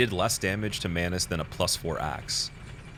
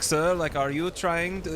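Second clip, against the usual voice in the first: mock scammer; 11 semitones higher, slower than usual. Retold scammer call.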